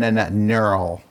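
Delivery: "neural" sounded out from a repeated n; careful pronunciation. Shown as a demonstration. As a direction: stutter on the n, then land "neural". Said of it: "Not girl".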